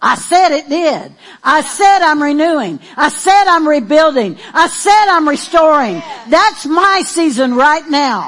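loud, insistent preaching; forceful declaration. Acted. Pastor declares restoration to the congregation, forceful and insistent. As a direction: hammer each statement home to silence doubt. Emphatic declaration answering the mocked doubt.

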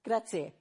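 "grazie" said the Italian way; Italian pronunciation. Shown as a demonstration. Preacher showing the word needed in Italy, Italian "grazie". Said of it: "You have to say".

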